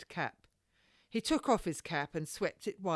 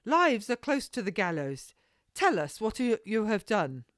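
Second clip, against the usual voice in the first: urgent demand; 6 semitones higher, 7 dB louder than usual. Acted. Lady demands his story.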